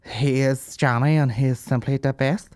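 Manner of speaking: slow, put-on German accent; hammy German-accented line reading. Shown as a demonstration. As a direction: do a deliberate mock-German audition. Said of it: "Can you do a German accent?".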